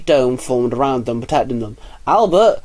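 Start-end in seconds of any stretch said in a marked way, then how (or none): 2.1-2.6 high, loud call across a room. A narrator's reading. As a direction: call his name over the noise. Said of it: "Ozzy called out".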